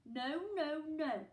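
loud, high no no no; chorus of protest. Acted. Animals refusing to let the villains take Joe, loud. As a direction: animals crying out together. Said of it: "all of the animals said".

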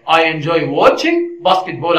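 completed sentence without a gap, moderately slow; straight through. Shown as a demonstration. Teacher showing learners no article is needed, straight through. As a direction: run it straight on, no pause before "basketball". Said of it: "على طول".

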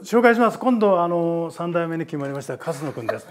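presenting the new star to the room; mildly imitated formal introduction; lightly voiced announcer.

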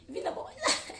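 laughing, loud half-shout; laughing rant. Real, not acted. Laughing while ranting. (koseka mpe koganga)

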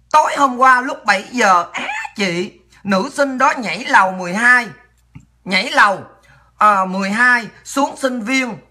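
slow, halting read-aloud with pauses; reading a message aloud. Real, not acted. Host reading a viewer's report of a campus death, reading aloud. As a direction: read it out slowly, phrase by phrase.

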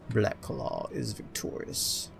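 slow, dramatic storyteller voice; mock-epic narration. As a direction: narrate the hero's triumph, savouring it. Narrates own character's victory as story.

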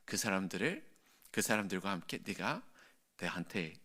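soft, reassuring, fatherly; calm the weary servant softly; God gently reassuring tired Elijah, soft and warm; gentle reassurance. Acted. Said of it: "굉장히 부드럽게".

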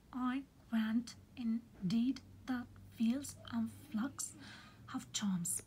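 slow, deliberate scansion of a poetic line; measured verse reading. Shown as a demonstration. Teacher showing meter to students, measured verse reading. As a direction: read the verse slowly, in separated beats. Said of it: "words that are stressed and unstressed".

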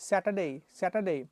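Saturday said slowly with a long ei pull at the end; slow Saturday ending in a long Bangla এই. Shown as a demonstration. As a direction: drag out the ei of Saturday. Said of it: "লাস্টে একটা টান হবে".

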